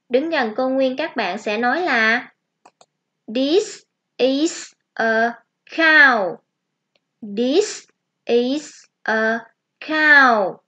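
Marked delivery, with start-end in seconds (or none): 3.3-6.3 This is a cow said very slowly; teacher modelling the sentence slowly for children; slow model sentence. Shown as a demonstration. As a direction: stretch each word for kids to copy.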